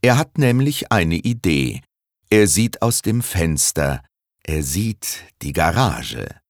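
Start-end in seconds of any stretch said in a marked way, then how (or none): none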